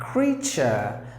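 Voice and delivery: "Creature" as KREE-chur, long EE; creature pronounced. Shown as a demonstration. Teacher models "Creature" with a long EE. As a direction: stretch the EE in "Creature". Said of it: "that's how you say".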